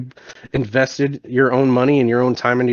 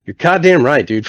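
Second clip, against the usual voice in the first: fired-up agreement; 3 semitones higher, 4 dB louder than usual. Retold or imitated. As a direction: seize on the advice, retelling it. Retold sudden agreement with buddy's advice.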